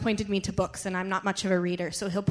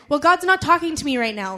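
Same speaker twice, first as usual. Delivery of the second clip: higher, louder mock grumble; mimicked complaint; 5 semitones higher, 5 dB louder than usual. Preacher mimicking listeners who hear nothing, mock complaint. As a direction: imitate a complaining churchgoer, pitched up.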